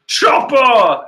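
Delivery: high, loud shout of a name; Brook calling out. Acted. Skeleton crewmate calling to his friend, shouting. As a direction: yell for your crewmate. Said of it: "we see Chopper screaming".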